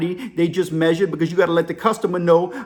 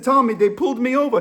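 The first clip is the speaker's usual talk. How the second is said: put-on higher African-accented protest; imitated African caller; 5 semitones higher than usual. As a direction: African accent, pleading to be understood. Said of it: "The African dude's whispering".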